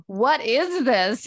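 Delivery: reenacted "what is wrong with me" panic; retold alarm at herself. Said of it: "really intense. And I was like".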